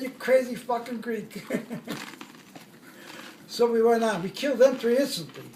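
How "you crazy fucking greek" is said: chuckling through the words; laughing. Real, not acted. Retelling a war buddy's joke, laughing. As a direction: let the laugh leak into the line.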